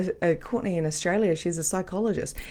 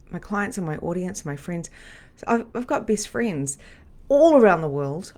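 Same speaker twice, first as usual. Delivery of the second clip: usual speaking voice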